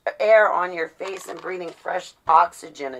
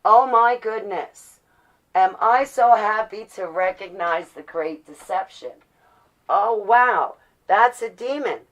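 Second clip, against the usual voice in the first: a touch of mock delight, louder; mock relieved realisation; 3 semitones higher, 6 dB louder than usual. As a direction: play a believer thrilled to spot the deception. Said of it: "take the next step ... and go".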